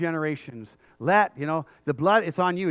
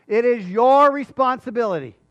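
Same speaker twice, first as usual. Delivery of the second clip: loud, raised declaration; emphatic disclaimer; 6 semitones higher, 8 dB louder than usual. Acted. Pilate to the crowd, emphatic loud disclaimer. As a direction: push the blame forcefully onto them. Preacher voices Pilate refusing blame.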